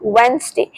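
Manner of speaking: Wednesday as 'वेन्ज़डे'; model Wednesday. Shown as a demonstration. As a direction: drop the d in Wednesday. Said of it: "जेड का sound आएगा".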